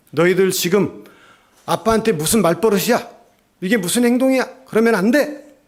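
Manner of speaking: put-on the mother scolding her kids for back-talking their father; firm scolding. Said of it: "단호하게". (크고 높게 단호히 꾸짖는 엄마)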